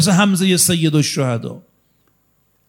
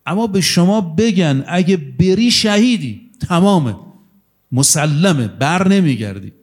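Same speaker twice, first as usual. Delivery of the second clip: emphatic preaching; 4 semitones higher than usual. Real, not acted. Preacher drives home his point.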